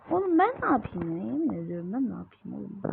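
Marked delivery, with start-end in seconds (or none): 0.1-1.2 high, loud, fast protest; exasperated yell. Real, not acted. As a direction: fire it back at the game in outrage. Panicked at the game's accusation.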